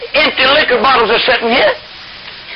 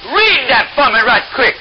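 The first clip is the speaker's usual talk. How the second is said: high, slow royal drawl; drunk king; 5 semitones higher than usual. Acted. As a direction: stretch it out like a tipsy king. King orders soothsayers.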